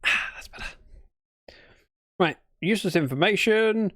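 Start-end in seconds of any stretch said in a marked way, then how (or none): 0.0-0.7 relieved sigh after a sip; breathy sigh after tea; sipping hot tea. Real, not acted. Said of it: "I'm sipping my tea".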